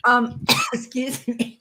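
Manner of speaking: choking on a cough. Real, not acted. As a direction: clear the throat and cough. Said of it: "that choked me up".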